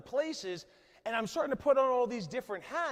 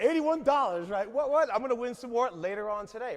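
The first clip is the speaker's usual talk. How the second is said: mock bragging; 2 semitones higher, 4 dB louder than usual. Boasting to the audience about craps winnings, hyped up. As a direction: crow about a tiny win.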